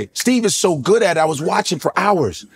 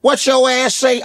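a punchy Steve Harvey impression on the game show; 6 semitones higher than usual. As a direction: put on Steve Harvey's teasing host voice. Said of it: "I was like".

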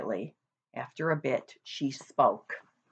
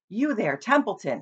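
higher, louder call across the yard; 6 semitones higher, 3 dB louder than usual. Acted. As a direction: call out to the rat. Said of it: "he called".

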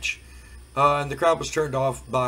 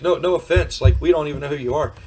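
blunt fans; 6 dB louder, faster than usual. Retold or imitated. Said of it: "you know, like".

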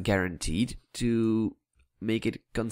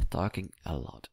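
"Talking a lot" repeated much softer, trailing to himself; muttered under breath; 3 semitones lower, 9 dB quieter than usual. Real, not acted. To himself about his own rambling, softly muttered. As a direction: mumble it as a self-aware aside. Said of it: "repeats it to himself".

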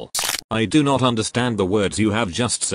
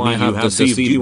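overlapping accusation; 4 dB louder, much faster than usual. Acted.

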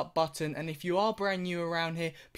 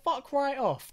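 higher, indignant mock rant at dad; imagined angry outburst; 6 semitones higher than usual. Son rants at dad over a small birthday gift, mock outrage. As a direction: play the outraged kid, pitched up. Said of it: "I'd be like".

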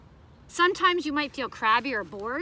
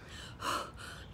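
demo gasp; 10 dB quieter than usual. Shown as a demonstration. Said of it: "makes you feel out of breath".

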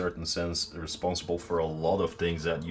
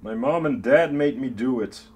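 raised, higher joking protest; mock yelled excuse; 4 semitones higher, 5 dB louder than usual. Prisoner blaming the parents on the way to prison, mock yell. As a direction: call it out like a half-serious plea of blame. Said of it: "don't go yelling that on your way to prison".

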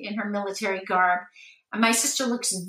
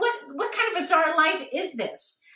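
laughing disbelief; 7 semitones higher than usual. Retold or imitated.

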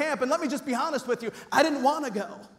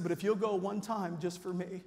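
serious; 5 semitones lower, 9 dB quieter than usual. Retold or imitated. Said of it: "it got real serious".

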